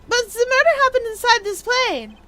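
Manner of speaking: high-pitched, protesting character voice; incredulous, high-voiced protest; indignant objection. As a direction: object in high, theatrical disbelief.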